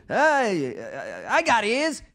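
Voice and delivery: high, loud stammered retort; hammed-up indignant comeback; comic tough character. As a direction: play the sketch character big. Acting the sketch line again.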